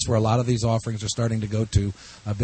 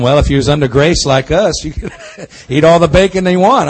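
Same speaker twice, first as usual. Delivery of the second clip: laughing; 4 semitones higher, 9 dB louder than usual. Real, not acted. Joking about bacon, laughing.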